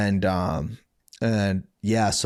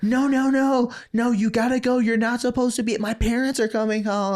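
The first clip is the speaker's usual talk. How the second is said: put-on much higher, fussing girl pleading; mock girl's voice; 13 semitones higher than usual. Girl urging him to leave before her parents return, high fussed voice. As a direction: squeak it out like a panicked girl.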